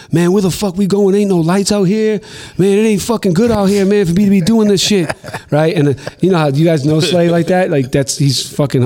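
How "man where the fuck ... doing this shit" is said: higher, uneasy mock complaint; imitating nervous K Slade. K Slade worried in dark Central Park, higher uneasy voice. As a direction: grumble nervously, pitched up.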